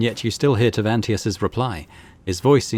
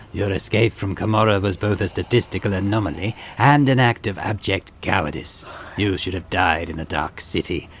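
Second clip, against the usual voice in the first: arrogant homunculus voice. Acted. Reads Tavantius's lines in character.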